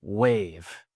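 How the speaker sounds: very slow, drawn-out reading; big bold announcement. Acted. Speaker reading stadium Jumbotron aloud, big and slow. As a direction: stretch out each word like a giant sign. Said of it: "big, bold letters on the Jumbotron".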